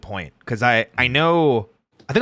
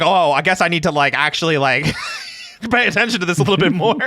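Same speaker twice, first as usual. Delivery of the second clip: laughing; 8 semitones higher, 4 dB louder than usual. Real, not acted. Laughing excitedly about channel growth.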